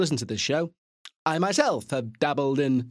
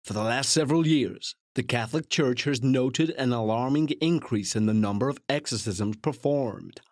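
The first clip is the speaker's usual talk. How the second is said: lightly put-on American narrator, dramatic; bad American accent; 2 semitones lower than usual. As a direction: attempt a portentous American blurb read, not quite convincingly. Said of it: "I can't do an American accent".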